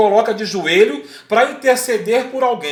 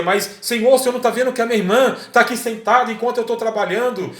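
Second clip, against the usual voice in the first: acted complaint; 5 semitones higher than usual. Martha complaining to Jesus about her sister.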